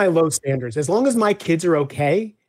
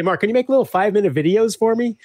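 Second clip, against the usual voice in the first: higher, louder pleading request; pleading client; 7 semitones higher, 3 dB louder, faster than usual. Retold or imitated. Clients asking the author, higher-pitched pleading. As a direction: ask sweetly like an eager client. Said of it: "So they say".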